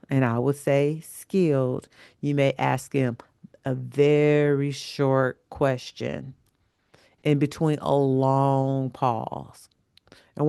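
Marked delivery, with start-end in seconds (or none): 3.6-9.7 slow and drawn out. Shown as a demonstration. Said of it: "when I say a long pause".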